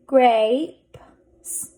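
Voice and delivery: grapes in separated pieces, final p and s apart; blended slowly. Shown as a demonstration. Teacher sounding out a word for readers, blended slowly. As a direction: sound out grapes, pausing before each final consonant. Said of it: "Let's read this".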